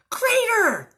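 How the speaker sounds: loud, high one-word correction; know-it-all cow correcting a friend; emphatic correction. A narrator's reading. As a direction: pounce on the word. Character corrects her friend.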